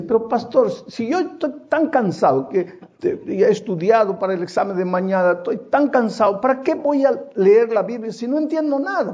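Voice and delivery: a hint of an exhausted student complaining; whiny young man. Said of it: "un joven me dice".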